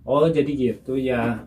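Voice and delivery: slowed, unhurried answer; slow calm reply. Shown as a demonstration. Showing Mama a delayed reply, slow and calm. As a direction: take your time, as if pausing before answering. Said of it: "ketika giliran kita mau ngomong baru".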